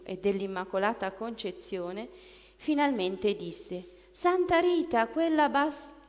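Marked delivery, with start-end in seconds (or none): 4.1-6.0 much higher, louder, spat out; forced angry outburst. Retold or imitated. The demon, forced by the exorcist, snarls the saint's name. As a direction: wrench the name out in fury, then cut off.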